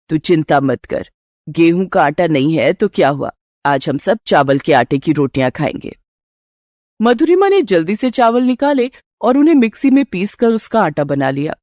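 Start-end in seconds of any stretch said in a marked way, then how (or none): 0.1-6.0 put-on lower, easy older mother's voice; mother reassuring her hungry son, lower older woman's voice; mother-in-law. Mother-in-law calms daughter-in-law.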